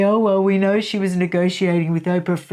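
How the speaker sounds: quick, breezy mock of what critics say; a light, fast send-up of the critics. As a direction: toss it off like a know-it-all critic. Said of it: "some people always say".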